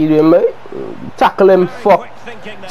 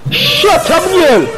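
mock annoyed; 9 semitones higher, slower than usual. Real, not acted. Telling the stream voice to shut up.

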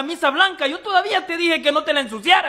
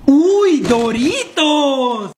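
tag; 3 dB louder, much slower than usual. Acted. Descubre comida ajena.

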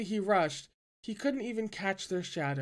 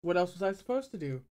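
mocking; faster than usual. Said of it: "Jiang Cheng asked mockingly".

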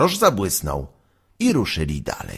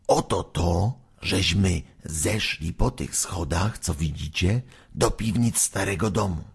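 softer secretive voice; hushed telling; 6 dB quieter than usual. Acted. Waluś quietly reveals the cellar stairs.

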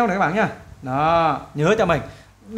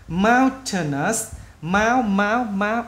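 slow drill, syllables drawn out; slow, word by word; much slower than usual. Shown as a demonstration. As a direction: repeat it piece by piece for learners. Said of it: "mình nói chậm từng chữ". (đọc chậm từng chữ)

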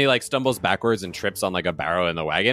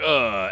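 play-acted "ugh" from a blow; pitched-up mock grunt; winded groan; 4 semitones higher than usual. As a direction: groan as if punched, doubling over. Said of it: "he, like, bends down".

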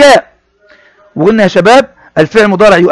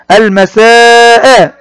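drawn-out reading; 3 semitones higher, 3 dB louder, much slower than usual. Shown as a demonstration. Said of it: "teacher models reading a word".

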